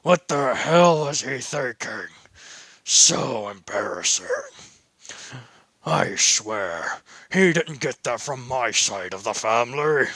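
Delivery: lightly voiced grandfather grumbling; a touch of an embarrassed old man; mild disapproving grandpa over speaker; grumpy grandpa. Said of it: "he can hear Papa in the background".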